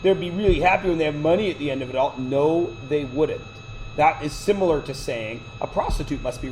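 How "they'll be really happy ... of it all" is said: lightly mimicked excuse-making parents; mocked parents. Video-making parents defending their pranks, mildly mocked. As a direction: mimic parents justifying themselves, starting higher. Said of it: "parents are like".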